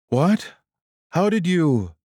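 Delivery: high, startled question; stunned. A narrator's reading. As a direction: blurt it out in shock. Sean stunned.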